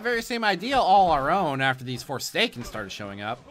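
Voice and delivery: lively, lightly acted boat repairer; lightly voiced boatman. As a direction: read it as a game boatman, emphatic. Reads boatman's quest text in character.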